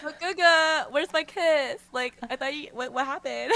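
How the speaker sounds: pouting lover. Retold or imitated. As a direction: lightly play a sulky lover begging. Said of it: "He's like".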